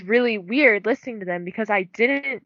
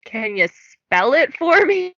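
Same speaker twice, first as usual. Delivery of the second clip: patient slow request; 7 semitones higher, 5 dB louder, slower than usual. Retold or imitated. Clerk asking customer to spell.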